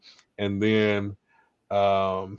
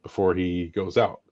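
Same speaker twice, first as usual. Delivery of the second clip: calm tone. Retold or imitated. Husband gently asking his angry wife, calm tone. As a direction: tread gently so she stays calm. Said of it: "I try to use my calm tone".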